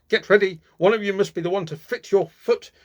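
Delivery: stepmother yelling. A narrator's reading. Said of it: "yelled the stepmother".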